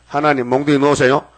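wrong prayer pleading. Shown as a demonstration. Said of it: "몽둥이 놓으세요 하면 안 되지".

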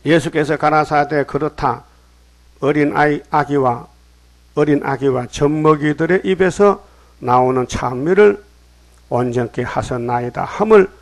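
measured, emphatic Bible reading; scripture reading. Acted. Preacher reading Jesus' answer to the congregation, emphatic recitation. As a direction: read the verse out firmly. Reads the scripture verse aloud.

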